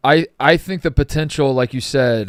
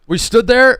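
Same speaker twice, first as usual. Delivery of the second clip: much higher and louder; exasperated insistence; a raised plea; insistent; 11 semitones higher, 8 dB louder than usual. Real, not acted. Insisting on what happened.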